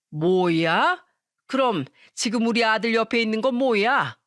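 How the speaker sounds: incredulous mother-in-law, rising first question; baffled. Acted. Mother-in-law hears the granddaughter is at the bathhouse, baffled. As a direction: ask in mild disbelief. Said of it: "시모는 황당한 목소리로 말하더니".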